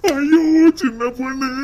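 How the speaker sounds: slow, high, loud cry of ஐயோ; husband lamenting to his young wife, wailing loudly; despairing wail. Acted.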